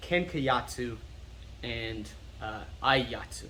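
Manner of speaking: "yatsu" with an "ah" vowel; John Danaher. Retold or imitated. Teacher quoting the coach's unfortunate version, mispronounced term. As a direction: say "kenka yatsu" with "yah-tsu". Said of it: "John Danaher says".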